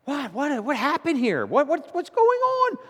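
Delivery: high, loud, outraged protest; wounded pastor demanding an explanation; indignant. Acted. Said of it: "the pastor is, like, indignant".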